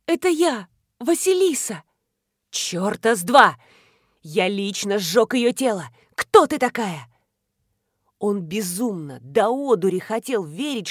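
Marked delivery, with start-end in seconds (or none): 0.1-1.8 high, pleading cry; high frightened cry; desperate plea. Acted. Choked girl pleading identity. 2.5-7.1 loud furious rejection; furious denial. Acted.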